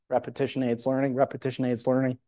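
quick, even rote repeat; rote repetition. Shown as a demonstration. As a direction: rattle it off like a memorised saying. Repeats a saying to show repetition.

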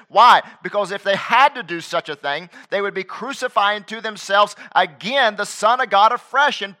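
rising, loud pulpit preaching; full-force sermon delivery. Acted.

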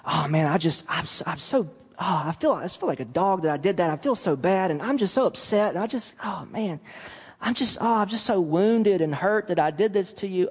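hammed-up wallowing, full of oh man and sighs; a lightly overdone sorry-for-myself apology; mock self-pity. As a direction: make it all about your own hurt. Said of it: "Don't dwell on how bad what you did makes you feel".

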